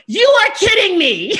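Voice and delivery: high, loud, laughing disbelief; laughing shout. Retold or imitated. Fan told a star will call her, in a high laughing shout. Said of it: "And I was like".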